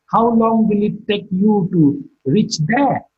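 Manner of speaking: slow question, "there" drops in pitch; falling tone on there. Shown as a demonstration. Teacher uttering an example question for learners, falling tone on "there". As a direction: let the voice fall on "there". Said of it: "There is marked with a falling tone".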